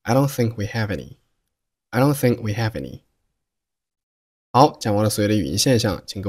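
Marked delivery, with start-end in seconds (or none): 0.0-3.0 "don't" and "think" with silent final stops, "have any" linked; connected speech. Shown as a demonstration. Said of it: "爆破音也可以失去爆破".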